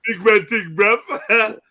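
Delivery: mimicking his friend's street-slang accent; mimicked slang accent. Mate echoes his friend's slang, mock accent. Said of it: "you can't even say it properly".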